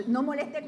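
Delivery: moleste said with weight, hinting at the J word; stressed moleste. Shown as a demonstration. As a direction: lean on "moleste" as if with a J. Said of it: "pero con J".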